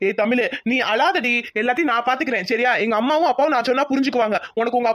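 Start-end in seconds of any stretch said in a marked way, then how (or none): 0.1-2.7 tender comfort. Acted. Comforting crying lover.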